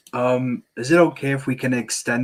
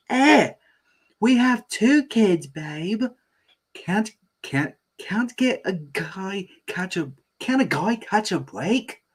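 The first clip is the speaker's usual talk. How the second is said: whiny dad voice; 8 semitones higher than usual. Acted. Bandit voiced.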